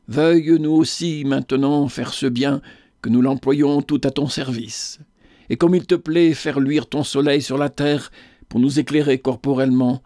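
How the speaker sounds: put-on an old lady's devout morning prayer; solemn prayer. A narrator's reading. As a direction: lead the household in earnest prayer. Morning prayer led by Idelette.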